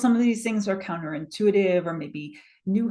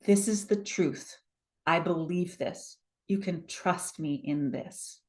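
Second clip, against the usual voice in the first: measured, softer statements, each settling downward; quiet certainty; 4 dB quieter than usual. Acted. Coach models certainty for the audience, calm and assured. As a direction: state it as settled truth, without force. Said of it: "but certainty, the sense of".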